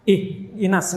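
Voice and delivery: "ihdinas" with "ih" cut short before "dinas"; chopped "ihdinas", gap instead of a flowing H; held-back H. Shown as a demonstration. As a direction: stop the air after "ih". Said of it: "bukan ditahan aliran suaranya".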